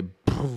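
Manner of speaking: puffed-out noise of a passing car; imitated car whoosh. Friend retelling a car passing his sister, puffed noise. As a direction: blow out a quick vehicle sound.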